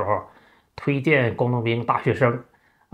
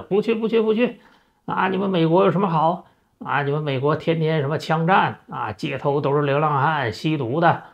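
put-on stubborn old father; 4 semitones higher than usual. 老父亲拒绝出国，尖声激动地抗议. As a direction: refuse outright, pitched up high like an angry old farmer.

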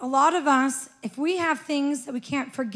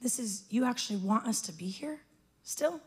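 stunned; 2 semitones lower, 11 dB quieter than usual. Retold or imitated. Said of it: "I was like".

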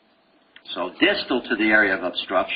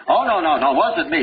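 mock denial; 5 semitones higher, 4 dB louder than usual. Guilty person denying.

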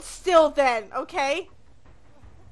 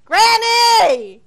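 shouting; 3 semitones higher, 6 dB louder than usual. Acted. Kid calling out to granny.

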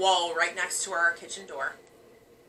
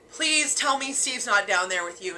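pleading. Retold or imitated. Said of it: "And I said".

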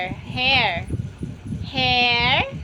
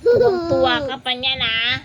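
fast and louder, half laughing, half crying; laughing protest; 6 dB louder, much faster than usual. Real, not acted. Mother to delighted toddler poking her eyes, laughing protest. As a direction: laugh through the ouch.

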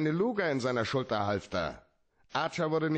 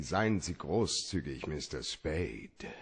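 low, slow mock plea, lightly voiced; a hint of a teasing imitation of her; mocking her pleading; 8 semitones lower, 4 dB quieter, slower than usual. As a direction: parrot her sweet begging, drawn out and sarcastic. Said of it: "wenn Sie sowas sagen wie".

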